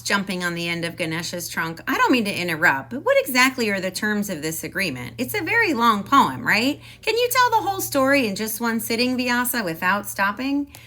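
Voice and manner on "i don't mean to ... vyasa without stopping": quick, louder fussy mouse voice; fast mouse questions. Acted. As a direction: rattle off the terms as the mouse. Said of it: "said Mister Mouse".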